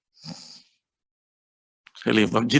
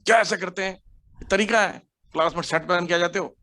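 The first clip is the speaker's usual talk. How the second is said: raised, sharp scolding of a student; demo scolding out of control; 4 semitones higher than usual. Shown as a demonstration. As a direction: scold the student in real temper. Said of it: "Madhav रू को मैं डांट रहा हूँ". (गुस्से में डांटना)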